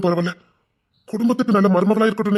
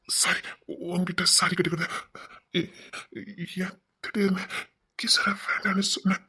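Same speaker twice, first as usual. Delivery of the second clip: subdued apology; 9 dB quieter than usual. Acted. Subdued apology, then careful question.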